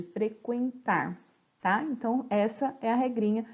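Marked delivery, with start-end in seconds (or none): 0.0-1.2 frequentar drawn out very slowly, fre-quen-tar with the U sounded; slow demo. Shown as a demonstration. Teacher slowly sounding out frequentar for the class. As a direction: stretch frequentar so the U comes through. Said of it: "dá pra escutar U".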